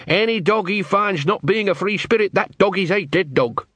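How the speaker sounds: high, awed and scared; fearful fascination. Retold or imitated. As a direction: tell it with dread and awe. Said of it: "mixture of fear and fascination".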